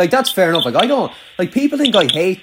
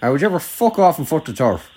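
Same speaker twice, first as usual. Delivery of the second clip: Irish country accent put on a bit stronger; exaggerated rural Irish accent for show. Shown as a demonstration. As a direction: lay the Irish country accent on thick, from the back of the throat. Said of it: "how you put it on strong".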